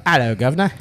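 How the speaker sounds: put-on Cockney greeting accent; English accent. Shown as a demonstration. Host showing co-host an English line, Cockney accent. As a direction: say it like a London Cockney. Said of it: "So you can't say, like".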